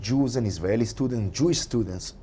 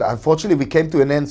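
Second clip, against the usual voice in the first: louder, brighter replay of "Unfortunately, we came to an end"; mock host voice; 2 semitones higher, 4 dB louder, much faster than usual. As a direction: replay your own line, pumped up. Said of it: "He said".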